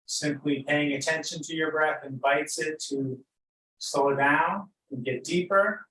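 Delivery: unhurried, lead them gently into noticing breath and body; guided meditation. Real, not acted.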